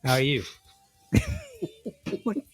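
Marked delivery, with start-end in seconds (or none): 0.0-0.4 lightly voiced Australian greeting; Australian accent. Friend introducing himself as Digger, Australian accent. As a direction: say hello as a pretend Australian. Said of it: "he would be Australian".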